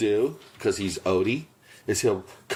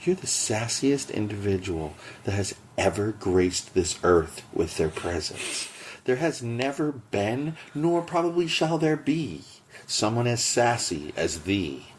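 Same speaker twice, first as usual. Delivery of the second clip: mock poetic speech. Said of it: "How's that for a rhyme?".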